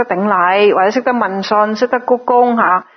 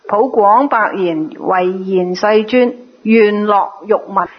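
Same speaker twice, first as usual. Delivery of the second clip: slow, measured scripture reading; slow formal recital of scripture; sutra recitation; slower than usual. Acted. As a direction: read the sutra line slowly, phrase by phrase. Reads sutra text aloud.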